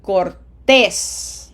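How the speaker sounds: "Cortés" in two syllables, the second loud and long; stress on written accent. Shown as a demonstration. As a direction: land firmly on "-tés" in "Cortés". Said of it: "Emphasis just blindly falls wherever the graphic accent is".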